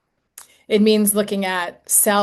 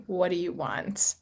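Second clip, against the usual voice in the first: asked softer, tender and inviting; softer gentle question; 6 dB quieter than usual. Shown as a demonstration. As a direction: hush the voice, ask with care. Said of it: "very gently and lovingly say".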